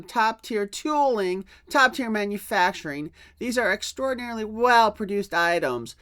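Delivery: a lightly put-on, smug CEO reading his apology letter; mocking corporate voice. Youtuber mocking the toy CEO's letter to fans, in a lightly pompous voice. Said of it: "I wouldn't be using this voice for this reading".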